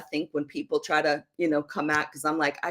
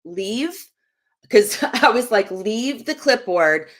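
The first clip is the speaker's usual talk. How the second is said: short, impatient, higher pitch; abrupt retold snap; 5 semitones higher than usual. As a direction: imitate being curt with someone interrupting. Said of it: "the way I said it was very abrupt".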